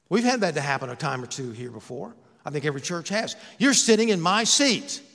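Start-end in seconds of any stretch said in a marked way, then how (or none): 3.6-5.0 higher, mildly indignant churchgoer's complaint; mock indignation. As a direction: play someone staking a territorial claim. Acted churchgoer claiming a seat.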